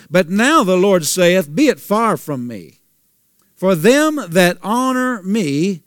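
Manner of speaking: slow, solemn reading of the verse; scripture reading. Acted. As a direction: lay out each phrase of scripture with weight. Reads scripture slowly and solemnly.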